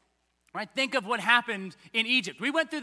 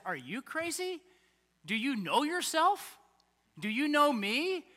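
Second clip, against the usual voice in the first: gentle rebuke; 4 semitones higher than usual. Pretend. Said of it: "the right response to that is".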